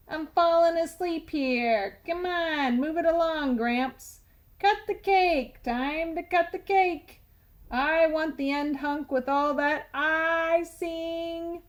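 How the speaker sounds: greedy tooth heckling the wedding toast. Acted. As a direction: rush grandpa like a rude heckler.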